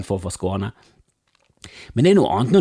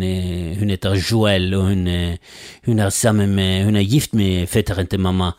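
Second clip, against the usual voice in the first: usual speaking voice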